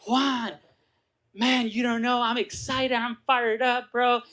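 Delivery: imitating a fired-up cousin; excited. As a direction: gush like an eager recruiter. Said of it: "You know the, the Primerica language".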